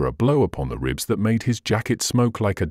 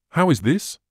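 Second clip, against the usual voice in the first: high, startled question; surprised cry; 7 semitones higher than usual. A narrator's reading. Will finds his master soaked, higher surprised cry. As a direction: jump up in surprise at the sight. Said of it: "cried Will".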